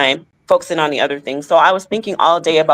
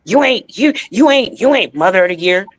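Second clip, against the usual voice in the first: mocking quoted insult; 4 semitones higher than usual. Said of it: "I would always get said".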